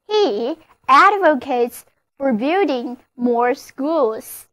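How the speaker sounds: slowed-down example sentence, every word clear; slow model reading. Shown as a demonstration. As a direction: read it slowly for learners to copy. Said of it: "例如这个句子".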